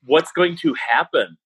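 lightly acted new-dad bewilderment; mock panic. Retelling his words to his wife leaving hospital, mock panic. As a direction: play helpless, lifting the questions a little.

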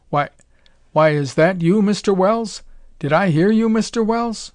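high, loud, bewildered stammer; stammering cook. A narrator's reading. Cook hearing his commander over the radio, high astonished stammer. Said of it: "The cook's stammering voice came back".

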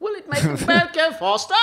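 very high, silly American voice. Pretend. Running gag, high silly American again. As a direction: squeak it in a cartoon American.

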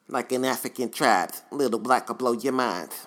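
Rapper imitation with a lisp; lisping rapper, a touch pushed; stupid lisp. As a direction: recite it as a lightly lisped rap impression. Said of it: "with the stupid lisp".

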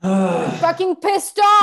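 a touch of demo fury; demo anger. Shown as a demonstration. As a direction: model the rage for him. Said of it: "I take a stand".

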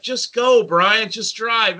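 high, drawn-out mock urging; thrill-seeker urging. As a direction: egg the driver on, slowly and gleefully. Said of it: "And Justin's like".

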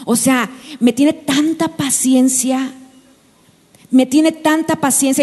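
lightly voiced girl defending her boyfriend; a hint of an infatuated young woman; mock smitten girl. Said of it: "Y andamos muchas veces así".

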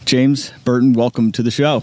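radio host's welcome. Pretend. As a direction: welcome the guest like an announcer. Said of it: "You haven't heard my radio voice yet".

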